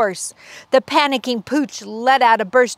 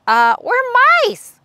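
timid squeak; 7 dB louder than usual. Acted. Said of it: "they squeaked".

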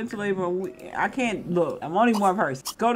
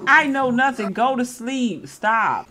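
raised, impatient parent voice; exasperated scolding; 3 semitones higher, 5 dB louder than usual. Pretend. Player telling a Sim child to sleep, exasperated. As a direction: order the kid to bed, fed up. Ordering game child to bed.

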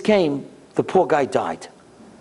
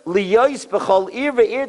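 measured, solemn recitation; slow text reading; 3 semitones higher, much slower than usual. Shown as a demonstration. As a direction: read the Hebrew very slowly. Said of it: "Listen to what the Satmar Rebbe read".

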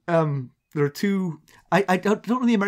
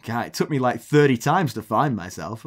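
low, unimpressed retold grumble; blasé; 5 semitones lower than usual. Sister unbothered by her TV appearance, blasé. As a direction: imitate someone who could not care less. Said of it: "How blasé are you about being".

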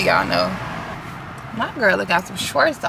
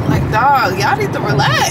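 exasperated; 4 semitones higher, 4 dB louder than usual. Real, not acted. Venting at reckless drivers.

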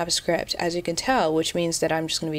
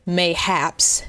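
mocking. Real, not acted. Mocking an odd word.

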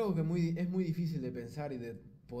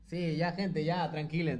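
calling out; 4 semitones higher, 6 dB louder, slower than usual. Real, not acted. Calming the chat.

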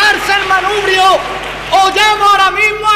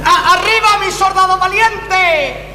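drill sergeant; 3 semitones higher, slower than usual. Acted. Sergeant rousing soldier.

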